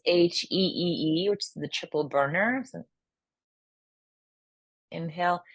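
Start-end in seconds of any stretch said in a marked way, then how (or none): 0.0-1.3 heee exhale sound. Shown as a demonstration. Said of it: "the last one is".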